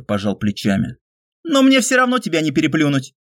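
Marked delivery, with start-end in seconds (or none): 1.4-3.1 higher, teasing friend's voice; light teasing male voice. A narrator's reading. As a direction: toss it off with a smirk. Pyotr teases hero, voiced.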